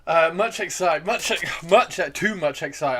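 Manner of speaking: bursting with too much excitement; overexcited babble. Real, not acted. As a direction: trip over the words from excitement. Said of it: "I need to calm down".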